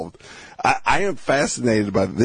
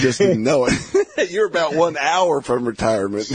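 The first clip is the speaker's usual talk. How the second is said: laughing through the words; amused teasing laugh; 4 semitones higher than usual. Real, not acted. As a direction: chuckle as you tease him. Host teasing, laughing at story.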